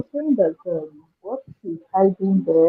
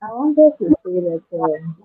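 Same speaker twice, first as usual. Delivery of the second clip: muffled voice far from the mic; muffled, like through a wall; 3 dB quieter than usual. Real, not acted. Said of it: "You sound muffled".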